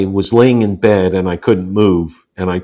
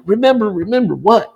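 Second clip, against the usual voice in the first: puzzled question; 12 semitones higher than usual. Retold or imitated. His puzzled reply to son.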